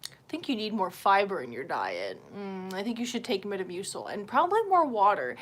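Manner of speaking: hint of a low, unbothered doctor; mock doctor giving routine advice; imitated doctor. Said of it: "and he's like".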